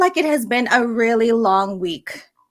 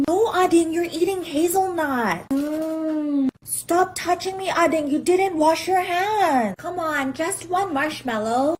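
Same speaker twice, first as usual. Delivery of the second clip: whiny tattling little sibling. Acted. Played skit with siblings.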